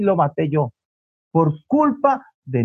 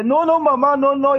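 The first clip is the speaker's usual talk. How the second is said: higher, tearful child's refusal, acted; tearful protest; 6 semitones higher than usual. Son cries to avoid punishment, acted tearful protest. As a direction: cut in pleading like a crying boy. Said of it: "Y le lloraba".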